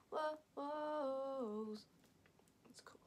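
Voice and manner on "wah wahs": imitated music. Shown as a demonstration. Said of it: "slowed down version of the wah".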